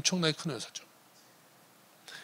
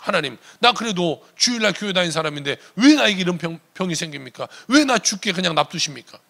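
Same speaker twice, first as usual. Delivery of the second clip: louder, aggrieved protest to God; retold bitter, complaining prayer; resentful complaint; 2 semitones higher, 6 dB louder than usual. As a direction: plead your grievance in a forceful retelling. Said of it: "원망불평에 나오시죠".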